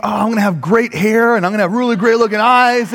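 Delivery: high, mock-dreamy excitement; gleeful anticipation. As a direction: gush over imagined results. Imagined excitement about the massage.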